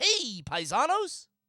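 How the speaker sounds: high cartoon-style voice. Speaker is asked to do their best Super Show Mario impression, Super Show Mario impression. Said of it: "That was pretty good".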